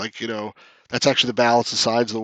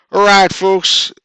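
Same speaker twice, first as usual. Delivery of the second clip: loud, slow Texan-sounding drawl; higher, stretched Texan accent; attempted Southern accent; 6 semitones higher, 7 dB louder, much slower than usual. Shown as a demonstration. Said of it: "sounds more like a Texan accent".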